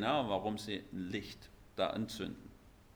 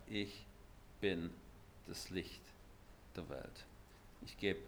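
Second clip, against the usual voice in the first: solemn hush; 4 semitones lower, 12 dB quieter than usual. Acted. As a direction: let the words fall quietly, one by one. Solemn slow Jesus quote.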